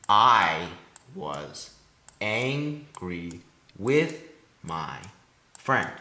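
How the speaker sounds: very slow, split syllables alternating strong and weak; exaggerated trochaic stress. Shown as a demonstration. Student scanning trochees aloud, exaggerated trochaic stress. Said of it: "These two syllables are stressed and unstressed".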